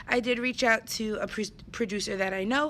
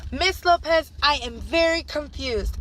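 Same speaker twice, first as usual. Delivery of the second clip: put-on higher, louder kid voice; confused little student; 4 semitones higher, 5 dB louder than usual. Teacher imitating her confused student calling her name, higher and louder. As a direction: plead it like a puzzled first grader. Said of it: "raised his hand and said".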